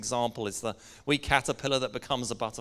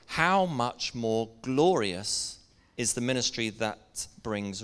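deliberate, phrase-by-phrase reading aloud, key words stretched; measured Bible reading to a congregation; slow scripture reading. Real, not acted. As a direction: read it slowly so listeners can take it in. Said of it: "read it sort of slowly".

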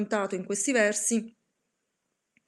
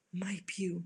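lugubrious raven; 9 dB quieter than usual. Acted. The raven answers the narrator, a soft lugubrious croak. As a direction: let the bird's verdict fall softly, doom-laden. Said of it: "col suo lugubre".

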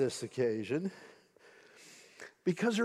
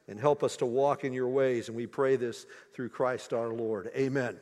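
prayer; 2 semitones lower than usual. Acted. Pastor leading the congregation in prayer, hushed and sincere. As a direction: pray it gently with them.

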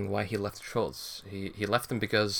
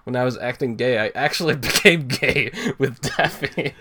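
high, loud dramatic cartoon read; hammed-up cartoon confession; 3 semitones higher, 7 dB louder than usual. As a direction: ham up the heartfelt confession. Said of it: "It says".

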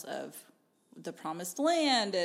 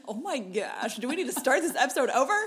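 fast, giggling through words; laughing; 4 semitones higher, 5 dB louder, faster than usual. Real, not acted. Cracking up mid-intro.

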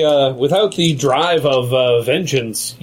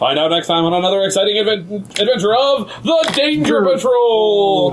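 announcer voice; 5 semitones higher than usual. Pretend. Rushed serial sign-off.

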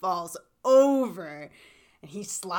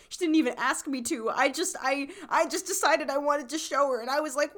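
a lightly higher, silly imitation of him; mock-recount it in a slightly raised goofy voice; goofy self-mocking voice; 5 semitones higher than usual. Guy confessing he showed his tattoo, lightly goofy voice. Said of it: "saying all that basically in that voice".

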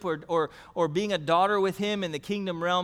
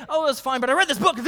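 put-on higher and louder, a kid bursting with news; excited son; 7 semitones higher, 8 dB louder, much faster than usual. Son telling dad about his book, high and excited. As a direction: imitate the son dying to share his book.

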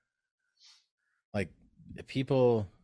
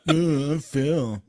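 true voice; 6 semitones higher, 3 dB louder than usual. Shown as a demonstration. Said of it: "talk in our true voices".

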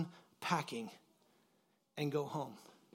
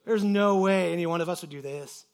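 confident; 5 dB louder than usual. Retold or imitated. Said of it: "feeling confident".

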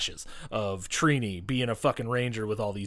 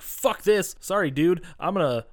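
fed-up Rita; 5 semitones higher than usual. Retold or imitated. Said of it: "she's like".

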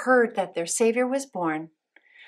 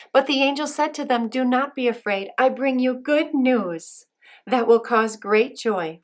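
emphatic scripture reading; 4 semitones higher, 6 dB louder than usual. Acted. Reading angel's words to kids.

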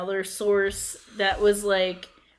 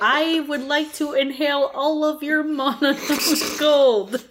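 mock alien; 5 semitones higher than usual. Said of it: "You sound like an alien".

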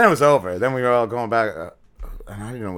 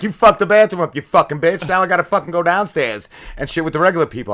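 mock-furious rant at the woman who wrecked the bathroom; mad at her; 5 semitones higher than usual. Dreamer yells at the lady who wrecked the bathroom, hammed-up anger. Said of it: "And I'm like / I was mad at her".

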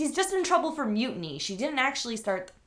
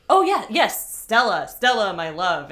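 louder, hammed-up lovesick mooning; mock-swoon over a lost love; imitating a man pining for Stella, hammed up; lovesick sigh; 8 dB louder than usual. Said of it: "and he's like".

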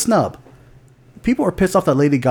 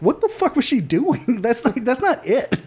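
mock Italian accent; 11 semitones higher than usual. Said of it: "that's not how you do an Italian accent".

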